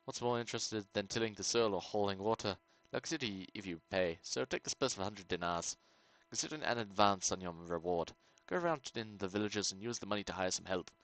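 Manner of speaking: lightly voiced medieval lord giving a quest; a hint of a scheming nobleman's tone; quest giver voice. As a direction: read it as the town noble hiring a stranger. Reads quest giver dialogue.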